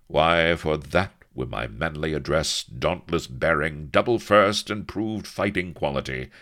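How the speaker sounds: loud, boastful captain; proud. Acted. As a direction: swagger through the brag. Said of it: "he concluded proudly".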